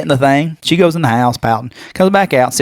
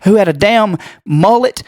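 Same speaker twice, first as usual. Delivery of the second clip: worked-up complaint in a raised pitch; disgusted rant; 6 semitones higher than usual. Real, not acted. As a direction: keep griping, higher than usual. Continues rant about the pool.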